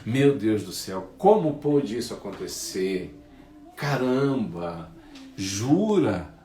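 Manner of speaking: acted dismay at someone's bad news; mock concerned shock. Friends hear the promoted one was fired, mock concerned shock. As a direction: play the suddenly concerned friend. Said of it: "Olha a entonação como já muda".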